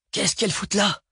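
high, exasperated outburst; annoyed grumble. A narrator's reading. Driver sees the girls in the clearing, exasperated grumble. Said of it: "grogna Paul".

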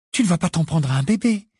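shocked reproach in a character voice; indignant protest. A narrator's reading. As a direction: object as if appalled. Hermione stops Harry hitting a baby. (protestation indignée)

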